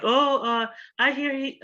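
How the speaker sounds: put-on high-pitched gossipy teen girl voice; high school girl. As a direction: squeal it up high like a chatty schoolgirl. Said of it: "she's like".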